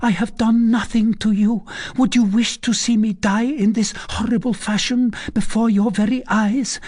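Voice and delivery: high, frantic pleading; mad with fright. A narrator's reading. Condemned girl begs the recluse for mercy, mad with fright. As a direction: beg for your life in a high, urgent voice. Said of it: "mad with fright".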